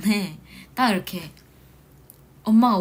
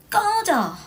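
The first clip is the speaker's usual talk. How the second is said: sharp high shout; yelled curse; 13 semitones higher, 5 dB louder, much slower than usual. Shown as a demonstration. Idol shouting at a sleep-paralysis ghost to go away. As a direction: bark it out like telling a ghost off. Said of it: "욕을 하세요".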